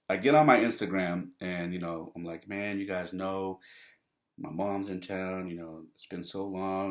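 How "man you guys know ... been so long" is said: measured, as if sharing a serious story; mock serious. Man to Instagram followers about mom's visit, mock serious. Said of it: "I start talking all serious".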